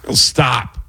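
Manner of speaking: halting Walken delivery with odd pauses; slow, broken Walken cadence; Christopher Walken impression. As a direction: stop and start mid-phrase like Walken. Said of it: "Christopher Walken is kinda great".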